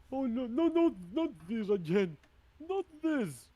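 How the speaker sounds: high, loud cry of dismay; hill giant's yell. Acted. Hill giant sees the same attack coming, loud dismayed yell. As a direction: yell it out in high-pitched protest. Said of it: "As the hill giant will yell".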